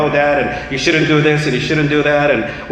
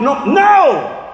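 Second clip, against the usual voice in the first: emphatic no; 8 semitones higher than usual. Real, not acted. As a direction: cut the idea off hard. Preacher rejects the correction.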